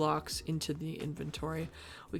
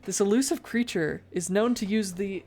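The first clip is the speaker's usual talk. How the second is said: hushed wildlife narrator, louder; nature documentary; 2 semitones higher, 6 dB louder than usual. Pretend. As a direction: narrate like a nature film host.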